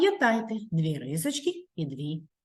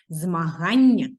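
Змагання drawn out slowly and loudly; slow, clear model word; 6 dB louder, slower than usual. Shown as a demonstration. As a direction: say Змагання slowly so the kids can repeat it. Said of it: "Проговоріть його разом зі мною". (повільно й чітко: Змагання)

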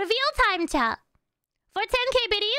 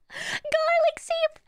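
mock wail; 9 semitones higher, much slower than usual. Mock lament over garlic sheepy.

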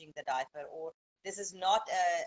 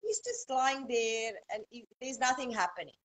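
tired new mom; 4 dB louder than usual. Retold or imitated. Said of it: "some parents feel like".

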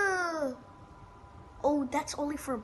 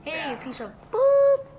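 hailing a taxi; 2 semitones higher, 7 dB louder than usual. Real, not acted. Yelling at cab in game.

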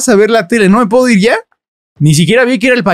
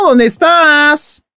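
slow, higher calling out; 7 semitones higher, much slower than usual. Real, not acted. Looking for the missing baby.

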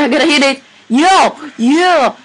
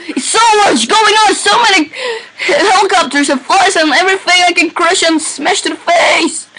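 laughing excitedly; 5 semitones higher than usual. Real, not acted. Laughing through chaotic gameplay.

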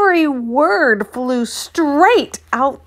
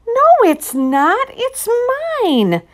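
put-on defiant girl; 12 semitones higher, 3 dB louder than usual. Children quarrel over camera.

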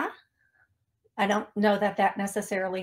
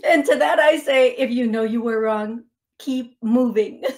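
sassy; 6 dB louder than usual. Real, not acted. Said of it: "my personal interjection".

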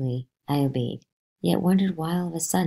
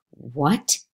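gasping. Acted. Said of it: "I gasped".

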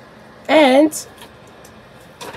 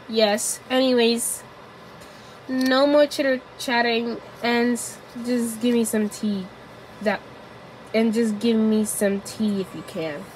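impatient lady; 10 dB quieter than usual. Acted. Impatient lady demands tea.

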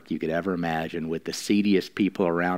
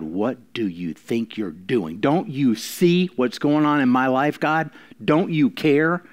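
complaining to God; 3 semitones higher than usual. Retold or imitated. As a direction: act out a fed-up believer scolding God. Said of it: "You cannot say to God".

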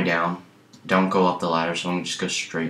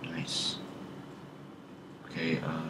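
whisper; 13 dB quieter, slower than usual. Real, not acted. Quiet aside while sneaking.

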